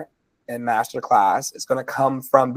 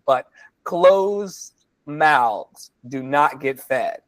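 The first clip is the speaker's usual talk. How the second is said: slow deliberate saying; slower than usual. Shown as a demonstration. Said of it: "repeats saying slowly".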